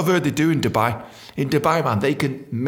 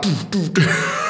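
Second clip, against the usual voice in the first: robot; much slower than usual. Retold or imitated. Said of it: "marching like some kind of robot".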